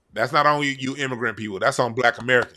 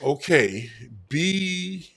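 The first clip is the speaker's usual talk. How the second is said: mock clueless speller. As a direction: whine then spell it wrong. Mock Hughley complaining and spelling.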